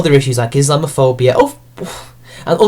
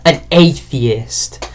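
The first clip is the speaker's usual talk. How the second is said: drawn-out, slow mock of "an atheist"; mocking echo; 4 semitones lower, much slower than usual. Real, not acted. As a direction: echo it slowly, mock-impressed. Mocks the line just read.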